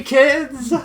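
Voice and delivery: rallying call. Acted. Rallying the troops.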